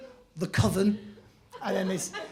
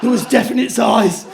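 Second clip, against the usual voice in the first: spooked squaddie; 5 dB louder than usual. Retold or imitated.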